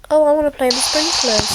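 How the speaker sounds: slightly high, eager play voice; a touch of childlike eagerness; eager wish. Acted. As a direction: pipe up, mildly excited to go and play. Bored character wants to play.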